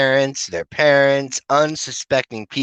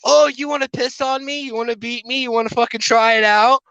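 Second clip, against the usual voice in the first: eager mock enthusiasm; 10 semitones higher than usual. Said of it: "And I look at her and I'm like".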